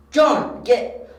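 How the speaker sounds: high, loud cries of a name; alarmed calling. Acted. Detective calling for John as the armor moves, alarmed. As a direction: call urgently for a friend in danger. Calling for missing friend in danger.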